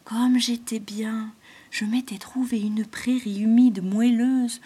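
breathy whispering snake voice, mournful; whispering python. Acted. Python laments being chased from the dream, in a sad whisper.

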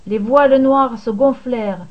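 plain reading voice

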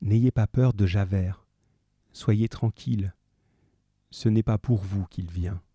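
gentle, reassuring; calm her softly, no rush. Acted. Jean Valjean soothing the dying Fantine, softly and calmly. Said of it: "de sa voix la plus douce et la plus calme".

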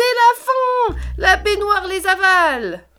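high, slow wailing panic; terrified wail. A narrator's reading. Tortoise Trouillette wails as the bath swallows her friends. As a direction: cry that all is lost. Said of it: "Trouillette a hurlé".

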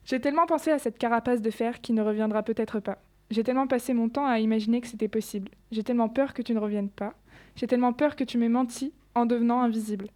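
lecture de poème. Acted. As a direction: lecture posée et régulière de son poème. Reads her own poem aloud. (élève lisant son poème à la classe, ton posé)

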